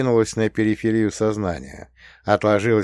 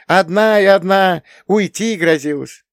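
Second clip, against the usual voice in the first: higher sister voice telling her troubles; Nastya confiding; 10 semitones higher, 7 dB louder than usual. A narrator's reading. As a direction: confide like a fed-up young wife.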